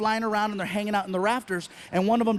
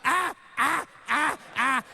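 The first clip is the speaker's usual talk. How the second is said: imitated weird laugh; 5 semitones higher than usual. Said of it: "These guys are laughing".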